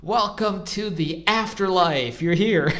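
a hint of a cheerful greeter; welcoming stranger. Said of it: "It's like".

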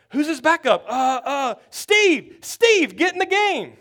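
startled coach shouting a name; frantic shout. Retold or imitated. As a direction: yell for the backup in a scramble. Coach calls Steve in.

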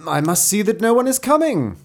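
high, loud storybook fox; high-pitched fox making his excuse; crafty fox. A narrator's reading. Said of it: "replied the crafty fellow".

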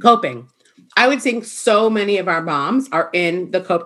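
talking while eating lunch; words round a bite of food; mouth full. Real, not acted. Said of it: "I'm sorry, I'm eating my lunch".

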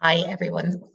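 hoarse, frog in the throat; croaky voice. Real, not acted. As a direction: speak through a croaky throat. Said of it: "Sorry for the croaky voice".

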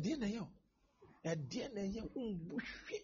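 hushed, coaxing plea to Nayo; soft pleading. Retold or imitated. Preacher imitating a mother's soft plea to Nayo. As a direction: coax her softly, almost under the breath.

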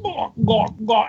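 mock choking gawk noises; repeated throaty gawks, played for laughs; imitated gagging. Mimicking what he overheard for friends, imitated gagging.

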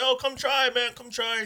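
high vendor's invitation, acted out; calling out samples. Cook to the dad walking by, calling out. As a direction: pitch it up to hail passers-by. Calling a passing family over.

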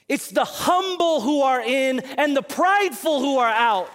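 emphatic, rhythmic pulpit delivery; emphatic preaching. Acted. Preacher giving the congregation lessons on the humble and the proud, emphatic. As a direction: declare each line to the room in parallel beats.

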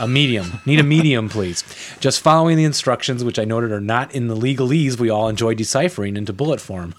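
lightly hammed-up Southern accent. Host reading a Texan's shirt order, Southern accent. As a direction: read it with a put-on Southern twang. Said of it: "my southern".

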